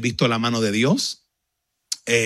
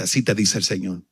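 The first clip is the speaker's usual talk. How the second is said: prophetic pronouncement; 5 semitones lower than usual. Retold or imitated.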